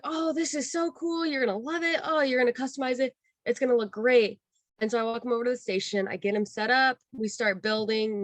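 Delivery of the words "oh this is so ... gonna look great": gushing enthusiasm. Retold or imitated. Worker admiring a guest's droid piece, gushing. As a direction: talk up a customer's new toy.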